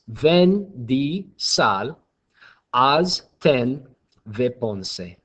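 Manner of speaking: very slow, word-by-word fake German accent; mock German accent. Shown as a demonstration. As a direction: spell out the phrase in a put-on German accent. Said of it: "pronounce that phrase in a German accent".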